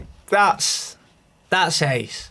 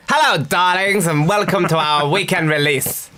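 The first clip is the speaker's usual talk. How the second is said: campy drag queen. Retold or imitated. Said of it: "I could do it as an impression".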